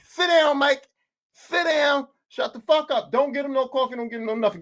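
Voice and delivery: mock-stern orders; mad team owner. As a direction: order him about like a fed-up boss. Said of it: "I'm so mad".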